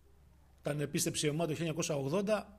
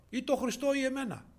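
high, loud insistent demand; acted ultimatum; 9 semitones higher, 6 dB louder than usual. Husband confronting his converted wife, acted forceful ultimatum. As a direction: press for a choice, pitched up and loud.

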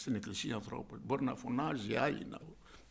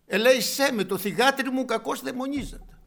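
high, loud begging cry; pleading mother; 9 semitones higher, 7 dB louder than usual. Retold or imitated. Preacher voicing the woman at Christ's feet, high and loud. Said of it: "Πέφτει στα πόδια του Χριστού και λέει".

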